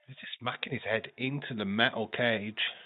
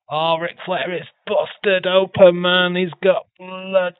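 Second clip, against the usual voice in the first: excited; 5 semitones higher, 10 dB louder than usual. Real, not acted. Excited call of the match.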